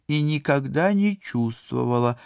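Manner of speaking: high, loud indignant outburst; indignant interruption. A narrator's reading. Polina interrupts Dan as he explains himself, indignant. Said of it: "возмущённо перебила его девушка".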